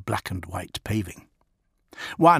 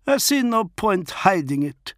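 Fafnir the wolf lord; 11 semitones higher, 3 dB louder than usual. Acted. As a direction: speak as the feral wolf lord, measured. Fafnir reveals document.

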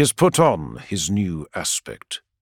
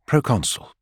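gentle. A narrator's reading. Sanguinius gently addressing the guard blocking his way. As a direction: speak his title kindly, without threat. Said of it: "says Sanguinius gently".

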